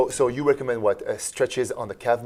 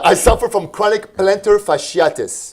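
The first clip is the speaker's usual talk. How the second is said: laughing; 8 semitones higher, 5 dB louder than usual. Real, not acted. Reads question, still laughing.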